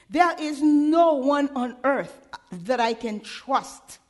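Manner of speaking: slow, pleading voice of a hopeless man; a lightly acted hopeless man, slowed down; despairing man. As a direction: voice a broken man begging.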